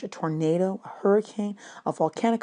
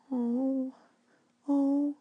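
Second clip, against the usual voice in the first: dismayed; 7 semitones higher, 7 dB quieter than usual. Acted. Children dismayed by rain.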